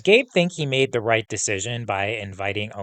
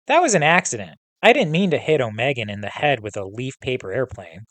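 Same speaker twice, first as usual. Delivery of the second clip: reading a novel aloud to the class; storytelling read-aloud with voiced dialogue; story narration; 2 semitones higher than usual. A narrator's reading. Teacher reading the confrontation scene to students, narration.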